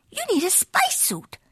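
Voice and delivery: a high, secretive whisper. Acted. Small dog sharing a secret.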